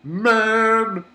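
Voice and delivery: hammed-up catchphrase cry; Chia. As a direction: belt out one drawn-out catchphrase. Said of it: "if Chia-san's there saying".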